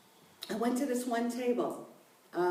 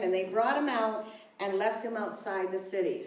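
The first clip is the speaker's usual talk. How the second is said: scripture reading; 3 semitones higher than usual. Acted. Reads Genesis passage aloud.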